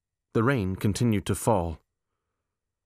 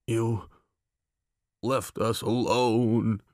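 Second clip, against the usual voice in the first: put-on childlike voice; much slower than usual. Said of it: "Big Cindy's voice was childlike".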